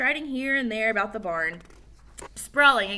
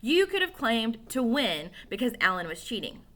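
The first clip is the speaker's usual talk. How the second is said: angry yelling; 5 semitones higher, 3 dB louder than usual. Acted. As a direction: yell it out angrily. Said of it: "Joe yelled at Billy".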